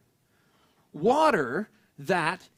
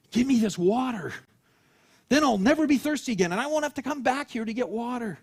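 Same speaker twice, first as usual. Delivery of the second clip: eager plea; 4 semitones higher, 3 dB louder than usual. Acted. Woman eagerly asks for water.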